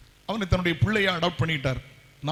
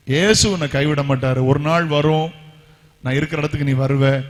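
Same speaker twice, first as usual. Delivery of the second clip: preached promise; 2 semitones lower, 7 dB louder than usual. Retold or imitated. Dying mother's promise, preached.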